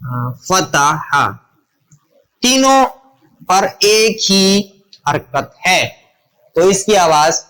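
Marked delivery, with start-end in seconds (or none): 0.5-1.3 "فتح" slowly as fa-ta-ha, lower; syllable-by-syllable example. Shown as a demonstration. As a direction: break "فتح" into three open a syllables. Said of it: "تو اس کی مثال ہم لے لیتے ہیں".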